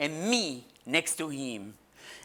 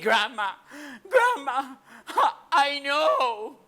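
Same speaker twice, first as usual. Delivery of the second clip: put-on high, whimpering child's sob; mock crying; 7 semitones higher than usual. Child tells Grandma she knows, in hammed-up crying. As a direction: act out a tearful child, voice rising. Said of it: "I started crying and crying and crying".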